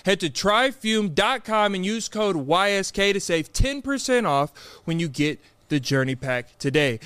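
measured sponsor read, spelling out the code; podcast ad read. Acted. Host reads sponsor offer to listeners, ad read. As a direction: deliver the promo code clearly, slowly.

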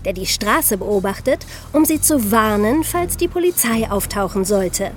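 tense true-crime storytelling over music; dramatic crime narration. A narrator's reading. Hosts narrating the bank robbery to listeners, in a tense documentary voice. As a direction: tell it like a suspense documentary.

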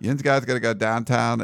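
Pittsburgh talk with "downtown" as "dahntahn"; Yinzer accent. Shown as a demonstration. Showing co-host how Pittsburgh talked, Yinzer accent. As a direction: put on a local Pittsburgh accent. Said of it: "horrible Yinzer accent".

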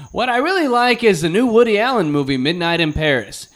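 put-on high, earnest kid reviewer; kid critic voice. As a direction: play a precocious boy critic. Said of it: "And he's like".

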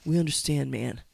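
low, soothing cop calming a man; mock gentle reassurance, calming him down; police soothing the father, lightly imitated. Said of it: "being like".

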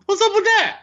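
hammed-up North Carolina catchphrase, jumping high; mock North Carolina accent, pitch leaping at the end. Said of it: "North Carolina accent right there".

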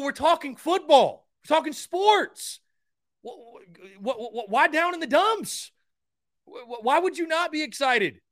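loud, high-pitched fired-up outburst; high-energy excitement. Real, not acted. Host defending his passion for sports talk, high-energy and loud. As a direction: passionate and incredulous, pitch and volume way up. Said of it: "I know I'm high energy".

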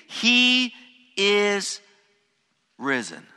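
high, loud, ringing cry of he is risen; angel's proclamation. Acted. The angel tells the women, proclaiming loud and high. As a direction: announce it like a triumphant herald. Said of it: "The angel tells them".

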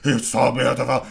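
mildly hammed-up rapture; half-shouted mock awe; mock losing it. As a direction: imitate an entranced man gushing. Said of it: "he starts just losing his shit".

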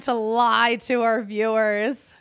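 slow, hoarse and strained; rasping through a sore throat; raspy whisper. Real, not acted. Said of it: "you've had no voice".

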